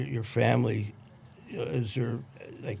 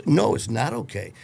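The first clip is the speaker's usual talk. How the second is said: louder, emphatic correction; firm objection; 6 dB louder than usual. Retold or imitated. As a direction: cut in insistently, retold. Retold firm objection to mother.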